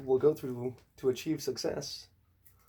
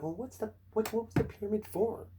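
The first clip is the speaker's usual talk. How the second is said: mock skeptic; 9 semitones higher than usual. Mocking skeptic voice.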